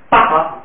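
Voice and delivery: 爸 with an unaspirated b, no puff of air; 不送气. Shown as a demonstration. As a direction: take the aspiration out of 爸. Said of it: "又变不送气". (不送气地念“爸”)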